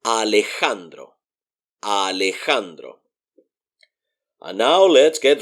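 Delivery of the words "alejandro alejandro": Alejandro with the J as a breathy h. Shown as a demonstration. Teacher shows learners the Spanish J, Alejandro with an h sound. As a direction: say Alejandro softly as "a-le-HAN-dro". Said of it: "kind of like the H in English".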